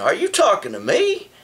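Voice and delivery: a light tough-guy movie challenge; lightly voiced, play the famous movie tough guy; Robert De Niro impression. To the man behind him, a lightly voiced De Niro challenge. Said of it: "what's his name, Robert De Niro".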